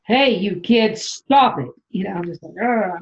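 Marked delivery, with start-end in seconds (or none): 0.0-1.7 a hint of a scolding mom, a bit louder; light mock scold at the kids; lightly voiced mom yelling stop. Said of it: "I used my mom voice". 2.6-3.0 mom voice. Retold or imitated. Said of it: "my mom voice".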